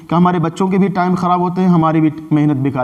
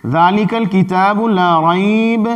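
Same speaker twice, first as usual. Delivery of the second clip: slow recited "ذالک الکتاب لا ریب", stopping on "ریب"; slow Quranic recitation; 3 semitones higher, much slower than usual. Shown as a demonstration. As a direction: recite slowly and stop after "ریب". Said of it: "یا پھر".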